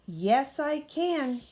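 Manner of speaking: small high peep. A narrator's reading. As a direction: pipe it up high and light. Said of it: "peeped Thomas".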